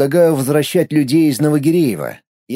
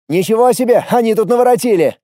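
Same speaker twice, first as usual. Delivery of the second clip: jogged voice; 7 semitones higher than usual. Acted. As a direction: call out mid-stride, breath bouncing. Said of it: "крикнул на бегу".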